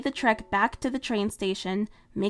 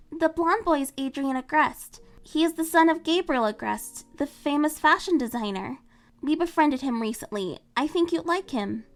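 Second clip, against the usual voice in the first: flustered Marinette; 6 semitones higher than usual. Acted. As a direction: laugh it off, then eager. Marinette speaks.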